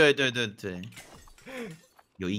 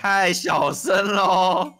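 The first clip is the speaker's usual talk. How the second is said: higher, half-speed sing-out; drawn-out teasing complaint; 4 semitones higher, 3 dB louder, much slower than usual. Real, not acted. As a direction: call it out slowly, stretching each syllable. Teasing a player for speaking quietly.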